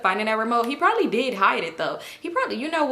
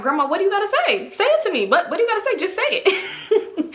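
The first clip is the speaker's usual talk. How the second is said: heated demand; 11 semitones higher than usual. Retold or imitated. Confronting grandma, rising pitch.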